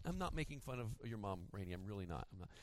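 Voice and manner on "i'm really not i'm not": ordinary delivery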